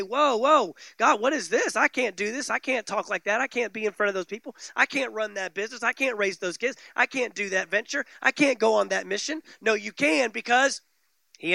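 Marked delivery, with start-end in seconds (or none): 0.0-9.4 mock protesting believer. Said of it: "no time to buck and say".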